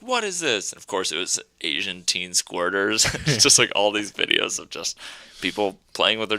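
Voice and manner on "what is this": high-pitched mock shriek of outrage; outraged mom. Mom finding porn on her computer, high mock outrage. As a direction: ham up a furious church lady. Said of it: "She's like".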